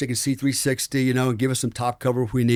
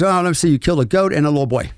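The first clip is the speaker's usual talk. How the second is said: cavalier; 3 semitones higher, faster than usual. Retold or imitated. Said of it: "he was really cavalier about it".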